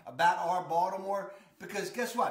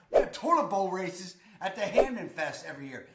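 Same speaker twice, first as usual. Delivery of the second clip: local Baltimore accent, a little louder; 4 dB louder than usual. Shown as a demonstration. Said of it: "here, here's my accent".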